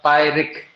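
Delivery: slow "पायरिक" with neither syllable stressed; equally unstressed syllables. Shown as a demonstration. Teacher showing students a pyrrhic, "पायरिक" slow and unstressed on both syllables. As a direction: draw out "पायरिक" evenly, leaning on neither half. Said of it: "यहाँ पर भी unstress है".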